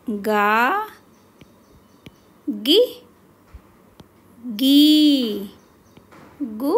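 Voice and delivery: each syllable ka, kaa, ki, kee said loud and separately with long pauses; slow clear syllable drill. Shown as a demonstration. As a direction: spell out ka-kaa-ki-kee one by one like a teacher. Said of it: "अब हम गा पर लगाएंगे".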